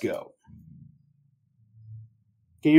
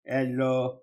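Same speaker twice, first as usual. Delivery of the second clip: mock robot guy; 3 semitones lower, much slower than usual. Mocking the robot reply guy.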